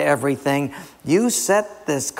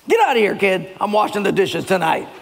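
acted snapping; 4 semitones higher than usual. Husband snapping at kid mid-chore.

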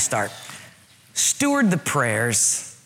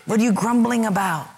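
lightly acted reproach, higher pitch; God; 7 semitones higher than usual. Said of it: "and God is saying".

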